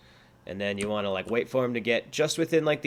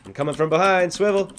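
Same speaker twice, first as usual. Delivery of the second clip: zombie voice; 7 semitones higher, 7 dB louder than usual. Pretend. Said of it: "pretend I'm a zombie".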